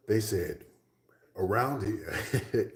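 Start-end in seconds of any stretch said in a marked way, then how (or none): 1.4-2.7 lightly imitated Norwegian accent, drawn out slowly; slow, higher take on a Norwegian's English. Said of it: "in their accent".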